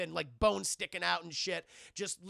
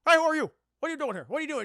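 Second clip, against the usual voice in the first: loud, high mock yell at an intruder; hammed-up cop yelling who are you; cop shouting; 9 semitones higher, 10 dB louder, much faster than usual. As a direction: bark it like a startled cop. Cop confronts intruder in retold film.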